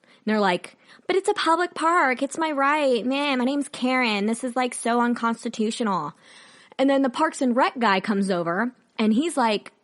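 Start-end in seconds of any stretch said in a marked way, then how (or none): 1.1-6.1 whiny Karen. Retold or imitated. Mocking women protesting to police at a park, whiny Karen impression. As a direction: imitate an indignant entitled woman, sliding down in pitch. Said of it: "these women start freaking out".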